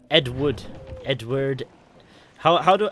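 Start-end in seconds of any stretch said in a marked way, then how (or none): 0.1-0.6 "Edward" in a British accent; demonstrated British "Edward". Shown as a demonstration. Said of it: "In the accent". 1.1-1.6 "Edward" demonstrated in a British accent. Shown as a demonstration. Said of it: "In the accent".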